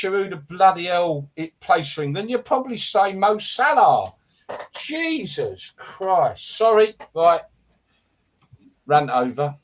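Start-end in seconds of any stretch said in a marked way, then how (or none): 4.8-6.5 exasperated. Real, not acted. Exasperated sigh after rant.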